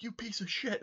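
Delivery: 1 angry insult. Retold or imitated. Cabbie cursing again.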